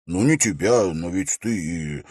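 halting, trailing off unfinished; hesitant. A narrator's reading. Young knight avoiding a name in public, hesitant. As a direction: falter before naming someone. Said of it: "Хорас замялся".

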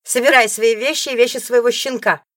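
high, loud contemptuous order; spat parting shot. A narrator's reading. Rival's parting order to the ex-wife, spat loudly. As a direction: hiss it on the way out. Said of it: "цедит она напоследок".

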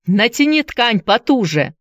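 Andy shouts an order to William; shouting. Acted. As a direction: call it across the platform. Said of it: "он крикнул".

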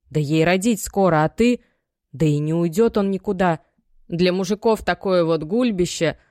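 mother shaming her daughter over the pregnant wife; reproachful mother. Acted. Мать упрекает дочь. (мать с упрёком, громче)

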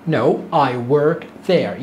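No, I work there dragged out slowly; slow demo. Shown as a demonstration. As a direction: model the answer word by word. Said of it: "تعال نسمع".

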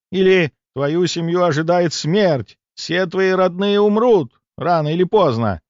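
slow ominous gypsy fortune teller voice; lightly voiced sinister fortune teller. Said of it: "изобразив цыганку".

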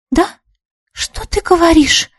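high, choked phone voice while being tickled; strained voice. A narrator's reading. Girl on the phone being tickled, strained. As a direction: keep talking while fighting off laughter. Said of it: "сдавленным голосом продолжала Чолпан".

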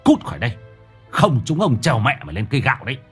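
a fast scornful villager threatening; angry villager. Acted. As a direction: spit the threats out quickly. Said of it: "Có tiếng người làng cất lên".

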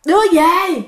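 imitated hollering spirit; retold yelling. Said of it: "nó cứ la vậy đó".

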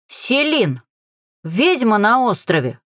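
hint of a crow raising the alarm; cawing crow. A narrator's reading. Crow warning Селин of a witch, cawing. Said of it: "прокаркала ворона".

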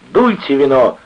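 loud, high, rowdy urging; drunken roar. A narrator's reading. Drunken sailor treating the gang, roaring. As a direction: bellow at everyone to drink.

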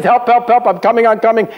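high, hammed-up cries of help and rescue; mock cries for help. Sinking man and Tarzan calling to each other, high hammed-up cries. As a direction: play both the sinking man and the hero, high. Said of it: "The guy says".

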